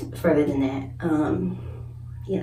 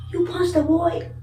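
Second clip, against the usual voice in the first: much higher, incredulous question; mock mama asking; 11 semitones higher than usual. Mama on the phone asking if she punched him, high disbelief. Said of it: "She said".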